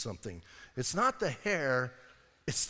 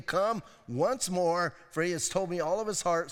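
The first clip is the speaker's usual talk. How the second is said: mock sly Delilah; Delilah scheming; 3 semitones higher than usual. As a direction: summon them conspiratorially. Delilah calling the lords.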